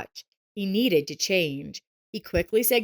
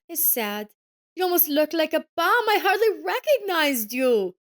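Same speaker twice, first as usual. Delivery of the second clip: gloating ex-wife; 7 semitones higher than usual. A narrator's reading. Ex-wife mocking Joseph about her husband's promotion, gloating. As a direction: rub it in that he looks like a bum.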